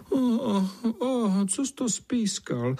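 squeaky high, slow little-bug voice; tiny ladybugs grumbling, high and drawn out; ladybugs wrinkling noses. Acted. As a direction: pull a face and squeak it out. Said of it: "nakrčili nos berušky".

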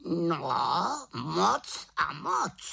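slow, high raven cry; exclaiming raven. A narrator's reading. Raven answering the witch, drawn-out exclamation. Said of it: "zvolal Havran".

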